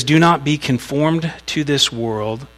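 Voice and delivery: slow, deliberate reading of scripture, stress on "not". Acted. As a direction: read the verse slowly, leaning on "not". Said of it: "verse two says".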